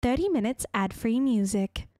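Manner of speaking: imitation of a streaming ad read; put-on announcer delivery. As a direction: voice an audio ad spot.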